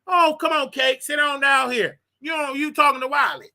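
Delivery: inviting a banker to sit, mild boss voice; talking to a banker. Retold or imitated. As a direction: lightly play the big-shot host. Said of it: "I talk like I'm talking to a banker".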